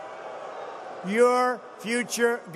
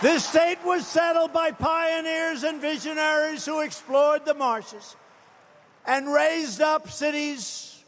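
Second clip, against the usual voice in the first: rally speech; 3 semitones higher than usual. Real, not acted. Climactic rally oration, shouted.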